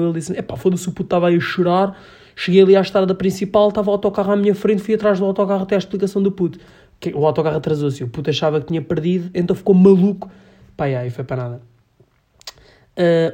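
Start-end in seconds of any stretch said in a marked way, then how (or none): 0.4-10.3 imitating excited coworker.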